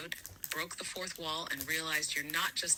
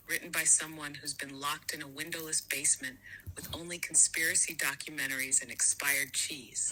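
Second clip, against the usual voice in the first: breathy hushed whisper, voiceless. Acted. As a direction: lean in and whisper it like a secret. Whispered joke.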